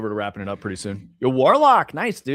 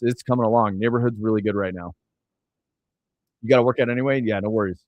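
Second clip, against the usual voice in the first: muffled, like through water; underwater; faster than usual. Real, not acted. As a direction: voice bubbling up from underwater. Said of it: "You sound like you're underwater".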